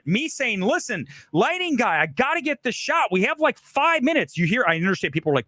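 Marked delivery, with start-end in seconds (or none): 0.6-4.4 firm but fair. Shown as a demonstration. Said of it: "That is different".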